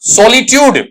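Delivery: "सॉलिट्यूड" with a full o and a ty sound; student's written pronunciation. Shown as a demonstration. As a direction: say "सॉलिट्यूड" as so-li-tyood. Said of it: "इसका उच्चारण आपने क्या लिखा".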